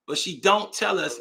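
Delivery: slow, don't stressed; emphatic slow. Real, not acted. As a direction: land hard on don't. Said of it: "Let me say it again".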